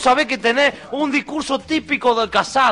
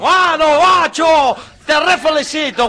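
shouting; 5 semitones higher, slower than usual. Acted. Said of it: "me estás gritando".

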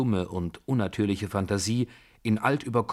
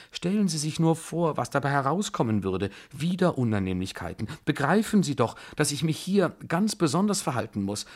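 much higher, anxious desperate pleading; 7 semitones higher than usual. Acted. General pleads with Alexei not to pursue the duel, desperate. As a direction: plead as if everything hangs on it. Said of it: "rief er ganz verzweifelt".

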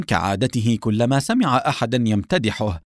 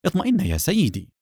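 higher, smiling reassurance; 7 semitones higher than usual. A narrator's reading. Officer interrupts the doctor, smiling reassurance. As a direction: reassure him with a smile. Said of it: "مبتسما".

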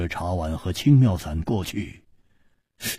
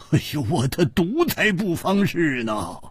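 higher, brushing off his own danger; insistent Hu Tiehua; 12 semitones higher than usual. Acted. Hu Tiehua tells them to treat his friend first, stubborn. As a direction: wave off your poison stubbornly.

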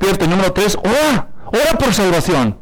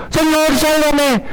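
Peter's plea; 7 semitones higher, slower than usual. Retold or imitated. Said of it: "le entró el miedo".

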